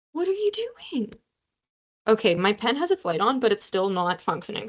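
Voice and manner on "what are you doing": much higher, slow, drawn-out whine; whiny plea to pen. Real, not acted. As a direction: beg the dead pen like a cartoon. Repeats plea at broken pen.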